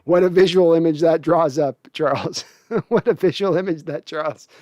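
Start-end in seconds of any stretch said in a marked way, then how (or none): 2.7-4.6 laughing. Real, not acted. Laughing at a donation message.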